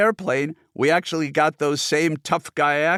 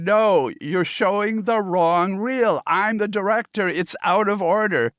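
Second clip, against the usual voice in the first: shouting; 6 semitones higher than usual. Retold or imitated. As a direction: keep yelling that it's the wrong reel. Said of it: "I just kept shouting".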